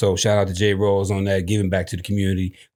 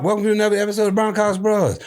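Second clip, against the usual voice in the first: hyped intro; 10 semitones higher, faster than usual. Acted. Hype re-intro of show.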